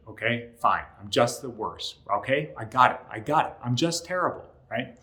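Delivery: loud, exasperated self-pity; self-deprecating apology. Retold or imitated. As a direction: blame yourself in a loud, huffy rush. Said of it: "sounded a little bit like this".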